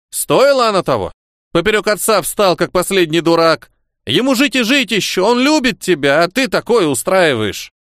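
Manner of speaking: put-on old woman reproaching her grandson; angry grandmother. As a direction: scold him like a strict old grandmother.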